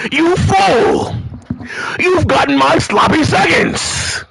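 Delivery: gloating yell at the fool; mock taunt. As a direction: jeer at him like a cartoon villain.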